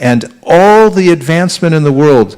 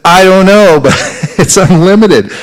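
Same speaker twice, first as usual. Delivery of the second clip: louder, higher exclamation breaking into a laugh; exclaimed quote; 5 semitones higher, 4 dB louder than usual. Retold or imitated. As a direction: quote it with amused amazement. Acted quote of Rupa Goswami, laughing.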